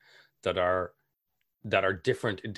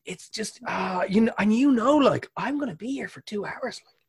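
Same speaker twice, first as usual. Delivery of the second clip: squeaky high, overdone guest voice; high hammed-up guest; 12 semitones higher, 4 dB louder than usual. Guest warning of a two-hour visit, very high mock voice. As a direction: ham up the reluctant guest.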